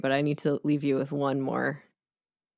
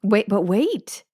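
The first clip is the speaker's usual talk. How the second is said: teasing; 6 semitones higher, 5 dB louder, much slower than usual. Real, not acted. Teasing her taste.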